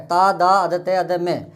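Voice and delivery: slow syllable-by-syllable spelling. Shown as a demonstration. Teacher spelling the word for students, slow and segmented. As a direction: break it into separate drawn-out pieces. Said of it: "तादात्म्य होता है".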